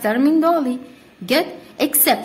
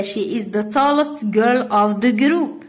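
slow dictation; much slower than usual. Shown as a demonstration. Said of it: "ولا".

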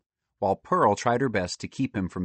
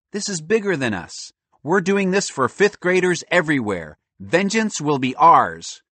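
high, swelling mock-heroic boy; rally the troops, slowing grandly at the end; pompous kid leader, pitched up; rousing speech; 7 semitones higher, 5 dB louder than usual. Boy rallies friends for revenge.

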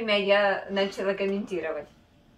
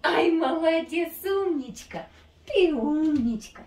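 high loud gushing praise; squeaky praising a dog; 6 semitones higher, 4 dB louder than usual. Real, not acted. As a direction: gush over the dog up high. Owner praising dog for trick.

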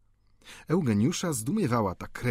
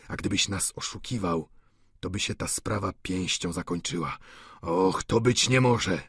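a hint of a fearful old man pleading; old Goriot, anxious; 2 semitones lower than usual. Narrator voices old Goriot.

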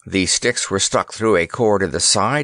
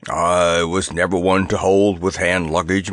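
elephant voice; 4 semitones lower than usual. A narrator's reading.

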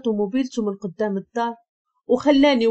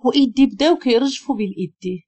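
ordinary delivery

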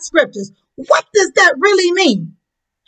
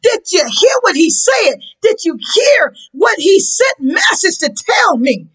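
amazed and overjoyed, voice cracking; Jesus marvelling at the centurion's faith; excited. Acted. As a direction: burst out in delighted wonder. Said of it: "Jesus got excited".

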